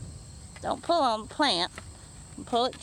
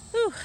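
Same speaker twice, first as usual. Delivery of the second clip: tired whew. Real, not acted. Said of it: "I'm out of breath".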